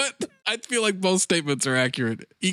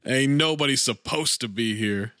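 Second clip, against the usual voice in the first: low, gruff movie-villain line; mock Fishburne growl; 6 semitones lower than usual. Podcast host quoting Fishburne, in a mock low growl. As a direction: growl it like a tough con. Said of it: "Lawrence Fishburne says".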